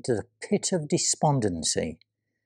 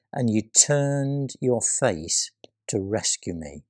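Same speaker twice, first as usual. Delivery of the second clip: whisper. Acted. Psalm read as whisper.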